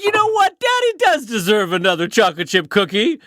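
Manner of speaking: high-pitched opening, settling into self-indulgence; mock self-justifying. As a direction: grant yourself a treat with comic conviction. Acts out past self justifying a treat.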